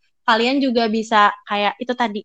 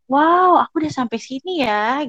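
higher, mildly awed self-quote; touched amazement; 4 semitones higher, 3 dB louder than usual. Retold or imitated. Rereading your own CV, touched and amazed. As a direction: act out being moved by your own progress. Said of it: "Kayak aku terharu sendiri gitu".

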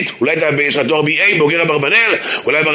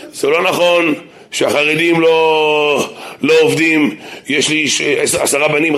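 1 apologetic rabbi; slower than usual. Retold or imitated. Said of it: "רב שאומר".

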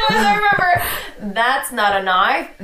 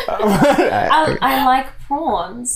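put-on Australian accent; 3 dB louder, much slower than usual. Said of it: "All right, you say it".

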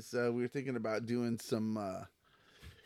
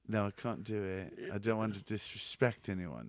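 British rock star. Pretend. Declining to impersonate out of respect, British accent. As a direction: refuse politely in a British accent. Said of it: "You sound like a British rock star".

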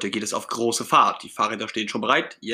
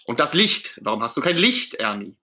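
raised, nagging question; nagging Bert; 3 dB louder than usual. Acted. Bert demanding Ernie explain the missing light, nagging. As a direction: press the complaint, pitched up. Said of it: "Aber Bert nörgelt weiter".

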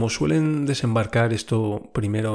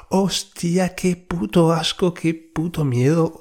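high, louder disgusted fear; disgusted shudder; 6 semitones higher, 3 dB louder, slower than usual. Real, not acted. Remembering the spider, a high disgusted shudder. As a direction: shudder through the words.

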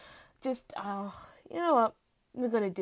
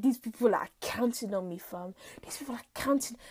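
put-on London road accent, softer and muttered; 3 semitones lower, 6 dB quieter than usual. September pacing under pressure, road accent. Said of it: "I did a road accent for this".

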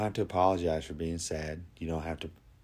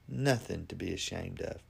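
softer, gentle repeat of the line; soft reassuring echo; 6 dB quieter than usual. Shown as a demonstration. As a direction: let it land quietly and kindly. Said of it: "Just be honest".

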